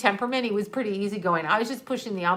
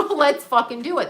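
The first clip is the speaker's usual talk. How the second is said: defiant dare; 5 semitones higher than usual. Retold or imitated. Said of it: "So I go".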